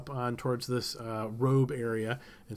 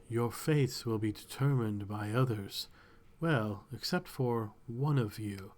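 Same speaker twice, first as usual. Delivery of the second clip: softer, unhurried, couldn't-care-less; bored and uninterested; 2 semitones lower, 4 dB quieter than usual. Acted. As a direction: let each word drip boredom. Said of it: "barely seeming interested".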